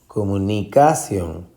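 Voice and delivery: comunicación with CA punched, comuni-CA-ción; stress on fourth syllable. Shown as a demonstration. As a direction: throw the force onto ca in comunicación. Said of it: "si usted se va a buscar". (comunicación con fuerza en la sílaba CA)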